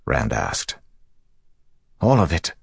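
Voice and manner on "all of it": high, tense answer; taut. A narrator's reading. Dockmaster reporting spoiled food to his lord, taut and high. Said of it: "voice taut".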